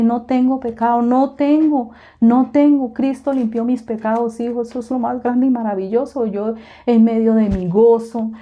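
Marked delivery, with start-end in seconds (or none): 0.0-4.6 higher and louder, building to a joyful cry; ecstatic shouting. Retold or imitated. Mother joyfully shouting back at her worried son, higher and louder. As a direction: shout it out like you've been set free. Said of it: "empecé a gritar como una loca".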